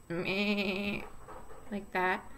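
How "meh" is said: bleating like a sheep; a soft sheep bleat. Shown as a demonstration. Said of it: "What's the sound that they make?".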